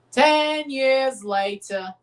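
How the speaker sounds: lightly put-on French narrator card. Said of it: "French narrator guy from SpongeBob".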